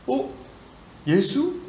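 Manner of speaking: surprised beggar. Acted. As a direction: hear the name and perk up. Beggar pricks up ears hearing news. (깜짝 놀라 되묻는 목소리)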